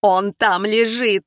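slow loud frightened cry; panicked yell over the phone; shout. Acted. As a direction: shout it out in horror. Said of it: "закричал Павел".

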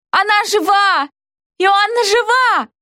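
high, joyful cry; ecstatic exclaiming. A narrator's reading. Friends rejoicing that the heroine is alive, exclaiming. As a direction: cry out in delighted relief. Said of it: "в упоении восклицали".

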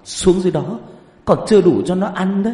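high, loud stammering protest; hammed-up terrified shouting; panicked refusal. A narrator's reading. Frantic refusal to go into water.

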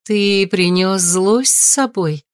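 high, slow, ringing mother's voice; crystal voice. Acted. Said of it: "Хрустальный голос матери". (хрустальный голос матери)

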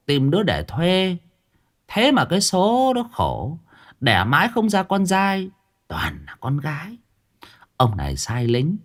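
put-on old woman spinning a ghost tale; lightly voiced old village woman. Old woman telling Uncle Hà about the buried child, lightly voiced.

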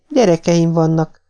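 high-pitched meek appeal; gentle plea. A narrator's reading. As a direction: appeal meekly, pitched well up. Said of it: "mondta szeliden Nancy". (szelíd, magas hangú könyörgés)

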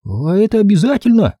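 put-on timid boy's question, pitched high; shy, small worried ask. A narrator's reading. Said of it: "робко спросил Билли".

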